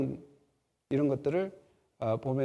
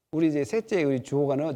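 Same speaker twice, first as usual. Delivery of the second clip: usual speaking voice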